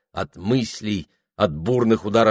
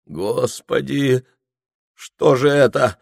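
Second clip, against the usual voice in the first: groan; 4 semitones higher, 4 dB louder, slower than usual. A narrator's reading. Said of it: "Резким стоном разорвал он".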